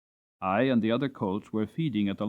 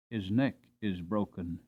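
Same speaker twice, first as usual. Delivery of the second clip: hushed mother; 5 semitones lower, 7 dB quieter than usual. Acted. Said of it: "said my mother".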